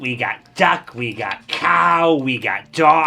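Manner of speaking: butcher hawking. Acted. Butcher listing meats.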